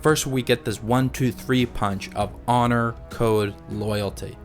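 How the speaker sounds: ordinary talk, nothing marked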